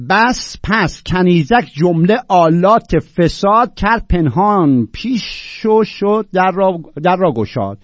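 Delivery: loud, drawn-out verse declamation; measured, emphatic classical Persian recital; poetry recitation. Acted. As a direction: declaim the couplet slowly, stretching the key words.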